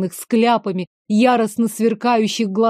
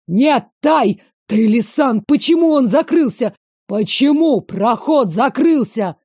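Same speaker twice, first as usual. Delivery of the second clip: panicked cry; 2 semitones higher, 4 dB louder than usual. Acted. Heroine calls to Tai after the passage closes, frightened cry. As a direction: cry out to him in alarm.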